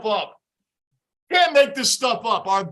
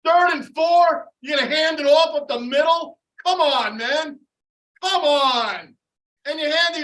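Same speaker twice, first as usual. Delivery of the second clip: outraged disbelief; 3 semitones higher, 4 dB louder than usual. Real, not acted. Fan mocking the coach's play call, outraged. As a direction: spell out the stupidity.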